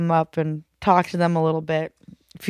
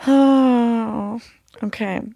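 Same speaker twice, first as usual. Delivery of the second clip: slow, laughing through tears; laughing while teary; 4 semitones higher, much slower than usual. Real, not acted. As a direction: giggle at yourself crying. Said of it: "Kate cries".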